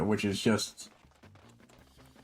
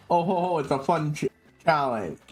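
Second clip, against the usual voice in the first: mock cheerful; 3 semitones higher than usual. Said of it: "This isn't like".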